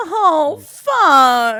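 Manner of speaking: put-on high, sudden drunk outburst. Retelling a friend at a bar asking for reassurance: imitating a drunk friend. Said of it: "that impression's too real".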